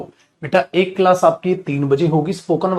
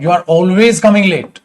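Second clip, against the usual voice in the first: slow, with always leaned on and said a bit louder; stress on always; 5 dB louder, much slower than usual. Shown as a demonstration. Teacher showing students where always goes, stressing always. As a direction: drag it out word by word and lean on always. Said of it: "always भी लगा देता हूं".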